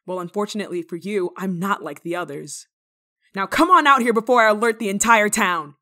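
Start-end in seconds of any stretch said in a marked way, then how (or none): 3.4-5.8 loud stern warning called out; louder commanding call; loud threat. Acted. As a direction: order them out, loud and firm. Threatening the hidden intruder.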